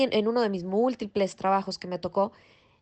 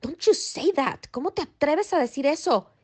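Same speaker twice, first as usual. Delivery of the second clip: higher mock scolding, imitating the tenant; retold scolding; 5 semitones higher than usual. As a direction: replay the tenant's indignant telling-off, lightly. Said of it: "Mi inquilino me regañó".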